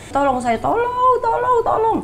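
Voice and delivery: pleading, stretched-out calls for rescue; retold cries for help. Trapped in the crowded afterlife, she cries for help high and slow. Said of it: "saya teriak-teriak".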